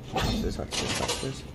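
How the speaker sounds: soft unvoiced whisper. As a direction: whisper it sneakily. Whispering about chicken.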